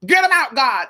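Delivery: high urgent plea to God; pleading prayer. Retold or imitated. Praying to God to remove people. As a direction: beg God to clear them out. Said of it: "where I said".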